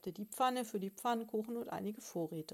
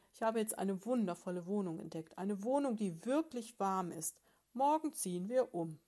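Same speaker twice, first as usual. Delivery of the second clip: proud loud bear; 5 dB louder than usual. Acted. Bear boasts of new home.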